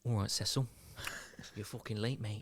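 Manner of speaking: gruff Nottingham manager voice; menacing East Midlands accent. Acted. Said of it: "That's such a good Nottingham accent".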